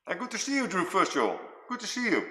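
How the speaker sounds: talking through a mouthful; chewing while greeting; mouth full. Real, not acted. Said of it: "sorry for me speaking with my mouth full".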